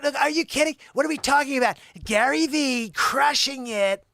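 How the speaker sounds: high, very loud hype-man outburst; shouted haggling rant. Acted. Gary Vee style haggler crushing the seller, high shouted rant. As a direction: holler it up high, indignant and pushy.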